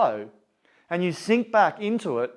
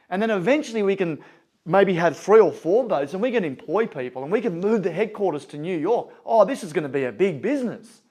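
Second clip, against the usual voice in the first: mildly excited, eager sales pitch; lightly acted banker getting carried away; 2 semitones higher than usual. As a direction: pitch it with a touch of growing enthusiasm. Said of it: "the banker's getting all excited".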